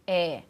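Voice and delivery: É said as a wide open vowel, held; exaggerated open É for diction drill. Shown as a demonstration. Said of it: "No E, fecha mais um pouquinho".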